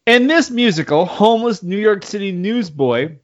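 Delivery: talking with a drink in mouth; words through a mouthful of drink; mouth full. Real, not acted. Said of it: "sorry, I have a drink in my mouth".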